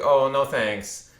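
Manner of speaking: imitating a slow, condescending brush-off. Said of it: "in a really condescending tone".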